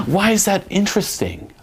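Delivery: gasp, then high-pitched questioning; mock affronted surprise. Coach voicing a teased girl, gasping mock surprise. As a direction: imitate a girl suddenly needing to know. Imitates girl starting to chase.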